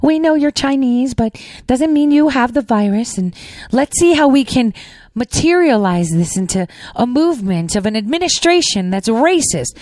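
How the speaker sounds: hammed-up fake reassurance to the community; mock Pelosi. Mocking Pelosi consoling Chinatown, pitched high and syrupy. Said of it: "Pelosi went down to Chinatown".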